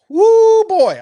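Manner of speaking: loud, high excited whoop. Real, not acted. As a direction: let out a hungry whoop of joy. Excited about smoked meat.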